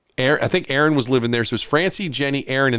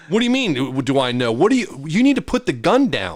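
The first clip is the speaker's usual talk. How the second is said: mock alarmed, pitch up; retold incredulous protest; 2 semitones higher than usual. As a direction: talk a jumpy cop down, in disbelief. Confronted by armed cop.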